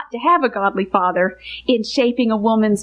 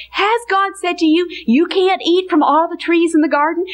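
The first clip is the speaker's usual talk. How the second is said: Satan tempting; 4 semitones higher than usual. Retold or imitated. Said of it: "Satan came and said".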